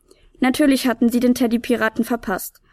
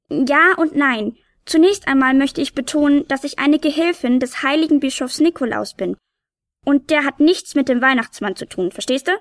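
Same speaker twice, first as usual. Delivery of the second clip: higher, self-important little sprite; tiny know-it-all helper; 3 semitones higher than usual. Acted. Tiny helper lectures the confused piper, higher and self-important. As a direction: set him straight like a small expert.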